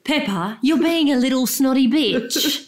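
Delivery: lightly put-on English dad scolding; a hint of a posh English father telling off; English daddy pig. Co-host asks for an Aussie Daddy Pig, slips into English. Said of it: "that's English again".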